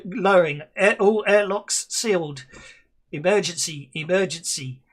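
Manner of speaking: flat computer alarm voice; automated ship voice. Pretend. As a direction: announce it like a ship's computer. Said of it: "Try that again".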